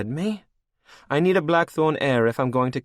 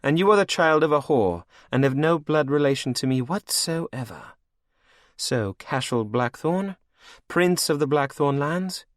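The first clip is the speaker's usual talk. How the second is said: cruel threat; 9 semitones higher, 5 dB louder than usual. A narrator's reading. Anne threatening Cashel, high cold menace. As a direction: spit the insult then threaten.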